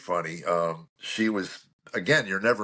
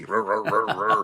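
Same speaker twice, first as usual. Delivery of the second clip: engine cranking noise. Retold or imitated. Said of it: "It's the crank of the key".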